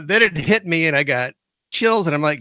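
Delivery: ordinary delivery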